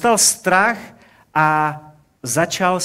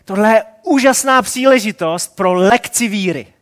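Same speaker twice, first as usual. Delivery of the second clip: preachy Jesus; 3 semitones higher than usual. Pretend. Imagined Jesus lecturing sinking Peter, mock preachy. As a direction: lecture him smugly instead of helping. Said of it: "a říkal".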